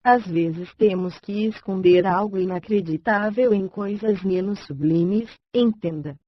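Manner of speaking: synthetic computer reading voice, bright and even; chipper text to speech voice. Real, not acted. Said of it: "Voz sintetizada, I B M Voice, voz Raquel". (voz sintetizada animada)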